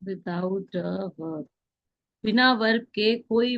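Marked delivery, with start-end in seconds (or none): 0.0-1.4 slow dictation. Shown as a demonstration. Teacher dictates rule to class.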